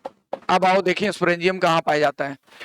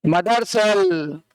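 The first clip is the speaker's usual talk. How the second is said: slow drilled term; 3 semitones lower, much slower than usual. Shown as a demonstration. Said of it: "spore की mummy cell".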